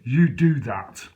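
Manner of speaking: a hint of a slow sinister copper; lightly voiced menacing officer, drawn out. Copper warns him through the door, lightly sinister and slow. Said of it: "in a real sinister voice".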